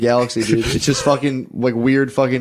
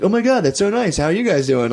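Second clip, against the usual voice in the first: mock delighted greeting; 7 semitones higher than usual. Girlfriend's friendly reply retold.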